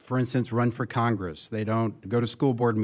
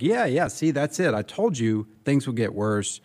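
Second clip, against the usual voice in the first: mock vindication; 2 semitones higher than usual. Imitating Christians who see bad news as prophecy fulfilled, mock vindication. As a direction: imitate someone eagerly proved right.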